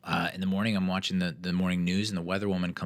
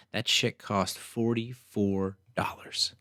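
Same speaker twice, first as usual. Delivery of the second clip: slow, whispered disbelief at the price; incredulous whisper; 3 semitones higher, much slower than usual. Real, not acted. To listeners about a forty-four dollar sandwich, slow stunned whisper. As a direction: whisper it slowly, stunned by the bill.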